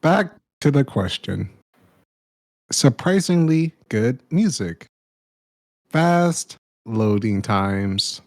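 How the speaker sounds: slow deadpan robot list. Pretend. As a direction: read it out like a machine. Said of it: "A I Towman".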